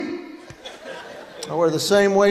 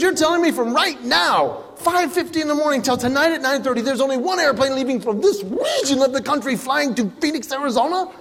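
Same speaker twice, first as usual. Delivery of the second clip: exasperated; 4 semitones higher than usual. Retold or imitated. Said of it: "I said".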